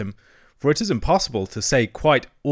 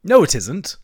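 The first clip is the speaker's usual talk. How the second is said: raised, louder indignant denial; 6 semitones higher, 6 dB louder than usual. A narrator's reading. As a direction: contradict sharply, pitched high. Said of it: "cried the rat indignantly".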